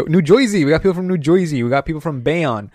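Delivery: broad mock New Jersey twang; New Jersey accent. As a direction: put on a thick "Joisey" accent. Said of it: "How would a person from Jersey say it".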